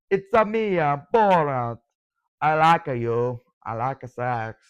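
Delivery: put-on lightly done comic foreign accent; a hint of a goofy, broken-English accent impression; Borat. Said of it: "that's my Borat impression".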